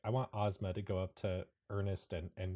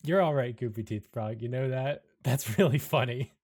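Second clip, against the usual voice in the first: amused chuckling voice; 5 dB louder than usual. Acted. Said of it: "with a smile on his face".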